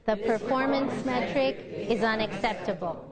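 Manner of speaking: falling pitch through "unacceptable"; inflect down. Shown as a demonstration. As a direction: voice drops on "unacceptable". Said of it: "now we're gonna go down".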